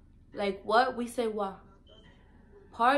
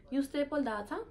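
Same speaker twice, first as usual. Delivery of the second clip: higher island question, rising at the end; Virgin Islands accent; 4 semitones higher than usual. Retold or imitated. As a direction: ask like a Saint Thomas local. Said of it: "They be like".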